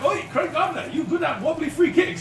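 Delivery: a high, slow mock voice for a Brazilian star; David Luiz. Teammate retelling how David Luiz teased Craig Gardner, high hammed-up mock voice. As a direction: hams up the player's taunt, pitched well up and drawn out. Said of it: "He went".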